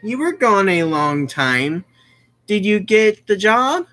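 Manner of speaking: a hint of a caring mom greeting her son; mom's voice. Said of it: "Then our mom speaks".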